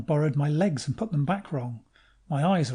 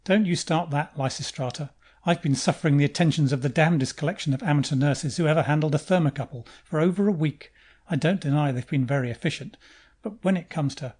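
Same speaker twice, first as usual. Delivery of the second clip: irritable; 4 dB louder than usual. Acted. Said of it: "straightens up irritably".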